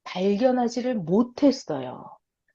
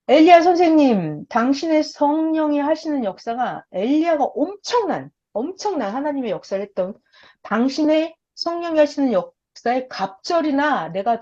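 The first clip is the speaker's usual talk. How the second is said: earnest Elisha; 5 semitones higher than usual. Acted. Elisha pleads to Elijah.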